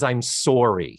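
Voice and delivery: lightly Wisconsin apology; Wisconsin accent. Retold or imitated. Clerk from Wisconsin apologizing, in his Wisconsin accent. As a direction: round the vowel of "sorry" like a Wisconsinite. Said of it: "He's from Wisconsin also".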